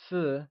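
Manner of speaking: "si" unstressed and fading away; neutral, fading tone. Shown as a demonstration. Teacher splitting a two-syllable word, "si" in a neutral fading tone. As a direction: let "si" tail off in a neutral tone. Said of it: "using a neutral, soft fading tone".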